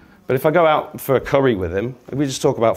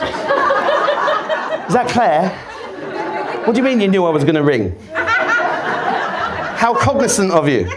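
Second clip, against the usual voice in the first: mock phone call; 6 semitones higher, slower than usual. Joking phone call to "Claire.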